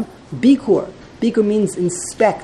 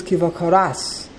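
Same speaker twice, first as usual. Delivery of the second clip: "Kivakoras" with emphasis on the final "ras"; end-stressed "Kivakoras"; stress on last syllable. Shown as a demonstration. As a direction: lean on the resh in "Kivakoras". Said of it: "correct emphasis should be on the resh".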